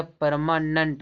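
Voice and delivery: "परमानेंट" ending in -nunt; "परमानेंट" with uh in the last syllable; correct pronunciation. Shown as a demonstration. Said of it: "परमानेंट नहीं".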